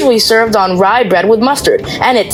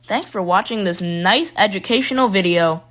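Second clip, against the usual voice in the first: quiet aside; 6 dB quieter than usual. Real, not acted. Quiet end outtake.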